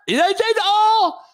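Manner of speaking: exaggerated high-pitched country accent. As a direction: mimic a country man, stretching "oil" into "awl". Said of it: "I met a country motherfucker".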